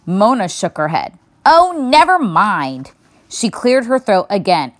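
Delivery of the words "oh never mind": put-on girl giving up. A narrator's reading. Mona gives up.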